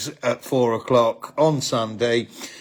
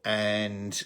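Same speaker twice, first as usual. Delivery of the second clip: trailing off, blanking on names; losing the thread, voice fading; brain freeze; 3 semitones lower, 4 dB quieter than usual. Real, not acted. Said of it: "I've got brain freeze".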